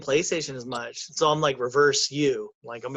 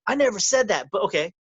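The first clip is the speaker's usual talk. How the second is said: testy denial; 4 semitones higher, 3 dB louder, faster than usual. Retold or imitated. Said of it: "And he goes".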